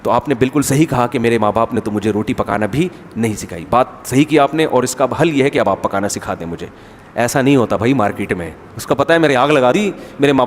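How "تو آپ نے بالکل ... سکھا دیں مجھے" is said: lower, restrained voice of a deferential reply; polite, respectful. Retold or imitated. Daughter-in-law conceding to mother-in-law, with mock politeness. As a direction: imitate an ideally well-mannered daughter-in-law. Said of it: "تمیز سے نہیں کہے گی".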